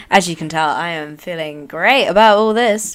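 loud, heavily sarcastic claim; deep sarcasm. Real, not acted. Guest on the election defeat to listeners, deeply sarcastic. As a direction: lay the sarcasm on thick. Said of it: "Please detect deep sarcasm".

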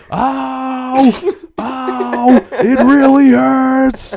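high, loud, slow mock howl of pain; imitating father's yell. Imitating his father slipping on icy stairs, high mock yelp. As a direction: ham up a hurt old man's yelping. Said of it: "That's what he was yelling".

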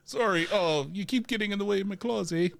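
high, rushed Canadian apology; flustered cartoon Canadian; Wolverine. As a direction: whine politely in a mock-Canadian accent. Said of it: "be really Canadian".

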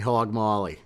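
put-on Hog Molly with a light Boston accent. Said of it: "he says it in Boston accent".

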